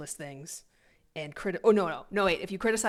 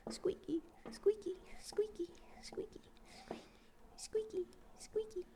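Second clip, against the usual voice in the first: very high, soft, breathy squeaks; squeaky singsong; 8 dB quieter than usual. Pretend. Mimicking the creaking chair in a very high whispered squeak. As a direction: squeak the word like a tiny toy.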